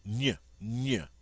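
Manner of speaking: Ny said as in the middle of canyon. Shown as a demonstration. Teacher isolates the French GN sound, ny as in canyon. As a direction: glide n into y on each ny. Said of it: "like the N Y in canyon".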